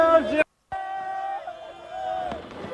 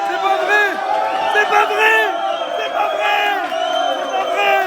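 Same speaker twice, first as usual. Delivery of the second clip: excited shouting; 3 semitones higher than usual. Real, not acted. Fan watching winning goal.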